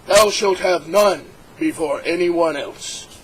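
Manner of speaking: slow, solemn pronouncement of "Thou shalt have none before anyone else"; God's commandment. Acted. God dictating the first commandment, slow and solemn. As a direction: intone "Thou shalt" slowly like scripture. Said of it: "And he said".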